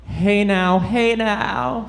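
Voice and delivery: lightly voiced impatient horse; a hint of a hungry horse. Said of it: "the speaker doing an impression of an impatient and hungry horse".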